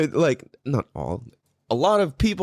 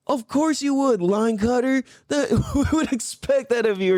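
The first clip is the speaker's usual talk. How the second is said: retold taunt; 9 semitones higher than usual. Retold taunt at line cutter.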